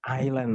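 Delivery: "Island" said eye-lan with a silent s; teacher models "Island" as eye-lan; Island pronounced with a silent s; model reading. Shown as a demonstration. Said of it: "Bener nggak bacanya island".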